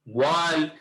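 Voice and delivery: "ওয়াইল্ড" said as one weighted word; stressed key word. Shown as a demonstration. Teacher picks out the stressed words for students, stress on "ওয়াইল্ড". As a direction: put the stress squarely on "ওয়াইল্ড". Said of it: "যে stress গুলো ওরা দিল".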